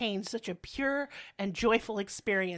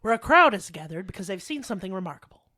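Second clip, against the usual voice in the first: reporter voice; 3 semitones lower, 6 dB louder, faster than usual. Retold or imitated. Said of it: "reporter voice".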